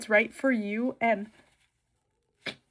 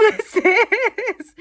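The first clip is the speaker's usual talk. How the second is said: high, cracking with tears; a sudden teary break; 10 semitones higher, 6 dB louder than usual. Real, not acted. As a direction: choke up on the words. Emotional vlog opening a wish note.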